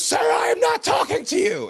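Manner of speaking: hugely high, shouted mock cop; mock shrill cop shout. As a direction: yell it like the cop lady losing it. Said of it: "she goes".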